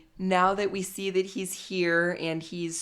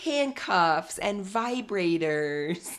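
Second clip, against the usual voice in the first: slow, drawn-out explanation, starting high; Jenny; 4 semitones higher, slower than usual. Retold or imitated. Jenny explaining kinky to Sumit, slow mock explanation. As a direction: imitate a woman spelling it out slowly. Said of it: "Jenny's explanation".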